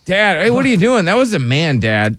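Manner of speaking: laughing mock daughter. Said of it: "mocking the daughter".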